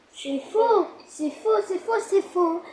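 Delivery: repeating like a glitching machine; stuck-loop robot chant. Pretend. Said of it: "le robot".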